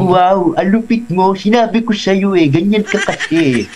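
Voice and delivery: comic impression with jutting-jaw voice; high, jaw-out comedian voice; Babalu. Shown as a demonstration. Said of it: "For example, si Babalu".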